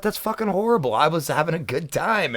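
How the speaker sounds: high, mock-indignant complaint; mock outrage. Mocking his own reaction to bad news, high mock indignation. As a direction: sound selfishly put out. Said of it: "I was like".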